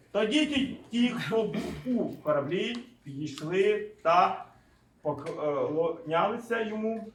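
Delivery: slow, measured Bible reading; scripture reading. Acted. Preacher reading of those in the boat worshipping, measured reading. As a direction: read it out phrase by phrase.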